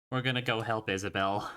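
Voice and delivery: dutiful, low-energy announcement; unenthusiastic. Real, not acted. Player announcing a rescue move to the game master, unenthusiastic. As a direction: say it with little excitement, as a reluctant chore. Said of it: "Don't sound too excited".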